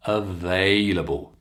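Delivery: available with stress on va; available, long A stressed. Shown as a demonstration. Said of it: "I'm stressing the they".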